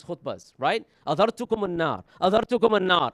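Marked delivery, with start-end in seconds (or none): 1.1-2.0 "Adhartukum an-nar" called out with a raised, passionate voice. Shown as a demonstration. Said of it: "it would get louder and louder". 2.2-3.1 "adhartukum an-nar" repeated louder and higher, climbing; louder still. Shown as a demonstration. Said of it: "it would get louder and louder".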